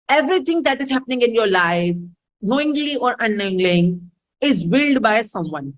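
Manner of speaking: very slow, weighted teaching line; slow emphasis. Shown as a demonstration. Teacher drives home her core principle, very slow. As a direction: drop each phrase in slowly, for weight. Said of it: "teacher stresses key principle".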